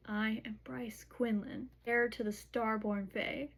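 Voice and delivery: measured, weighty announcement, imitated; slow declaration. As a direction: proclaim a title slowly, word by word. Retold solemn declaration of identity.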